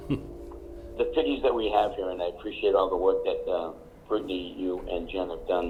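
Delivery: hoarse, raspy speaking voice. Real, not acted. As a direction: talk through a raspy throat. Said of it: "Sorry about the raspy voice".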